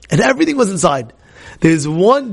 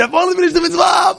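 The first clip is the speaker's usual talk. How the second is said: much higher, fast, shouting with glee; excited cry; 12 semitones higher, faster than usual. Retold or imitated. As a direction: burst out in triumph. Excited friend finishing last dish.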